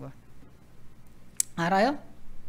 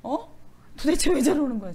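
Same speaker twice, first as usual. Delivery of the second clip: mock crying. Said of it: "막 이러고 막 진짜 많이 울었어".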